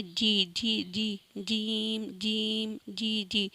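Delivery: جیم with a clear j, no breathy jh; clean jeem. Shown as a demonstration. Tutor showing students the clean جیم sound. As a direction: say جی crisp, not جھیم. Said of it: "جھیم نہیں بولنا آپ نے یہاں پہ".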